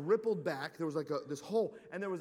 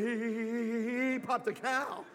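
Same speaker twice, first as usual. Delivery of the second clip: stammering giggle; 4 semitones higher, 4 dB louder than usual. Retold or imitated. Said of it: "My buddy's like".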